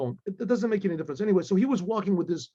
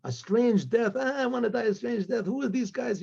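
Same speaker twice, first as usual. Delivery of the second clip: higher-pitched scoffing imitation; mock laughing; 4 semitones higher than usual. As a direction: jeer it as if laughing off a curse. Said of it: "they were still laughing".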